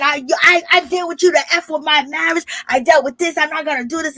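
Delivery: half-acted cussing, high and worked up; retold screaming rant. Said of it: "Karen is screaming".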